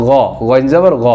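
"গ" with a rounded o-like vowel; correct Arabic ghain. Shown as a demonstration. Teacher showing ghain with zabar, correct pronunciation. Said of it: "ওই অক্ষরটাই উচ্চারণ করতে হবে".

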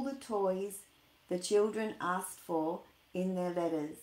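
bright storybook read-aloud; lively reading to children; story narration. Acted. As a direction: read it like a bedtime picture book. Reads a Christmas story aloud.

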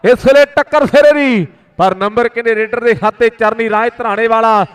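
rapid village kabaddi play-by-play; frantic rural sports commentary. Real, not acted. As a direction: call every raid live to the crowd. Live kabaddi commentary on mic. (ਤੇਜ਼ ਪੇਂਡੂ ਖੇਡ ਕੁਮੈਂਟਰੀ)

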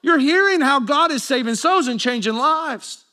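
a touch of bro-to-bro protest; mock exasperated. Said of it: "I wanna go".

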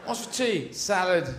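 normal talking voice

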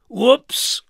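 high, loud sing-song whoops; surprised whoops. Acted. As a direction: yelp it in mild surprise. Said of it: "said Mister Strong".

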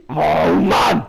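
slow, breathy whispered groan of defeat; frustrated whisper. Real, not acted. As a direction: gamer mutters to himself after being killed, in a slow whisper. Frustrated after dying in game.

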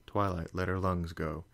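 plain reading voice

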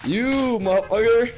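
high-pitched accusing jab; indignant high retort; heated comeback. Real, not acted. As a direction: throw the insult back, pitched high. Heated insult thrown back.

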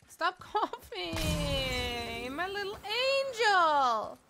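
mock doting parent. Mock-doting on sick son.

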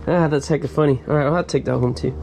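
ordinary delivery

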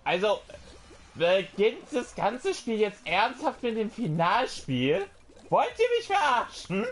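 high, loud outraged yelling; berserk rage. Real, not acted. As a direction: rant furiously at the game. Outraged at the final round.

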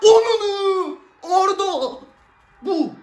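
real screaming joy, pitch high; ecstatic goal shout. Real, not acted. Fan watching Arda score roars with joy, real shouting.

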